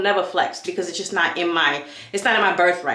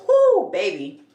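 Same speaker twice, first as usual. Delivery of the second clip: whoo exclamation; 13 semitones higher, slower than usual. Real, not acted. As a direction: let out a wild whoop about the cabbies. Exclaiming about cab drivers.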